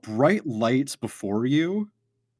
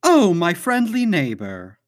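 mysterious voice; 5 semitones higher, 5 dB louder than usual. Acted. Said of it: "you hear a voice say".

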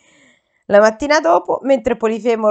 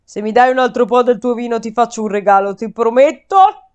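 grunting giant. Acted. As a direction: growl it like a cyclops. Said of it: "grugnì il gigante".

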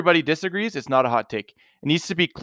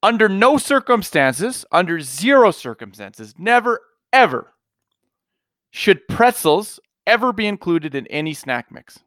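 slow, heated, higher-pitched rant; aggressive rant; 4 semitones higher than usual. Real, not acted. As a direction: lay down the law with fired-up outrage. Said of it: "You were really aggressive there".

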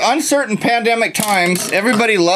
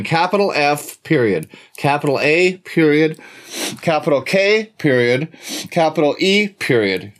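spelled out letter by letter with periods; dictating. Shown as a demonstration. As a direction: dictate each capital and period.

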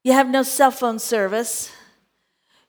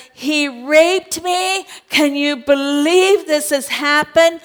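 higher, louder, slow mock outcry; accusing wife; 4 semitones higher, 4 dB louder than usual. Potiphar's wife accusing Joseph to her husband, mock outcry. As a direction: play the wronged wife crying foul.

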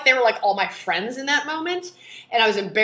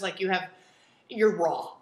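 usual speaking voice

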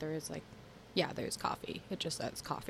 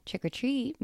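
mild mock yell, pitched up; imitated kids' yell; 8 semitones higher than usual. Podcaster imitating kids today at Halloween, mild high mock yell. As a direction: lightly call it out high like kids at the door. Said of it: "when they yell".

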